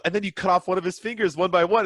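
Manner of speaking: sing-song it like a proud mother; cheerful assassin mom. Retold or imitated. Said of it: "And she goes".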